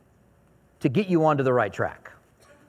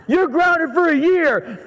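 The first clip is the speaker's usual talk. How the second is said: higher, slow, louder mock yell at the kid; hammed-up fed-up father; exasperated yell; 11 semitones higher, 4 dB louder, slower than usual. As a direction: drag it out, beside yourself with a defiant seven-year-old. Father at wits' end.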